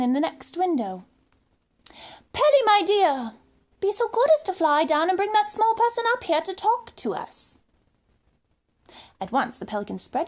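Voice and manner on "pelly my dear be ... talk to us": genteel giraffe. Acted. Giraffe voiced in the story.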